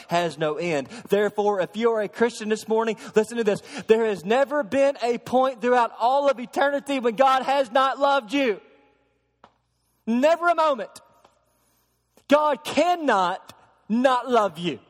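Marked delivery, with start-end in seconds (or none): 1.1-1.6 therefore thrown out louder and higher; rising preaching call. Acted. Pastor telling Christians to listen, loud preaching call. Launching into the climax. 1.6-14.8 higher, louder, slowing hard at the end; climactic preaching. Acted. Pastor assuring Christians God always loved them, impassioned preaching. Climax on God's everlasting love.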